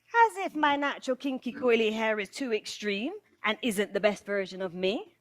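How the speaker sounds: indignant, questioning disbelief; incredulous retort. Real, not acted. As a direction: throw it back in disbelief, ending on a rise. Retorts to colleague's compliment.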